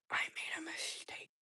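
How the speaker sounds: slow, soft whisper after a gasp; hushed dismay. Real, not acted. Crafter admitting a mistake to viewers, dismayed whisper. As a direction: whisper it slowly, as if it just sank in.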